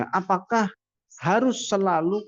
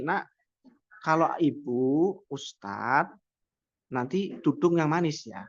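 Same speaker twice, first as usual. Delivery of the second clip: gentle coaxing; 3 semitones lower, slower than usual. Shown as a demonstration. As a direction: call the child over kindly. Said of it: "Tapi kalau dipanggil". (lembut membujuk anak)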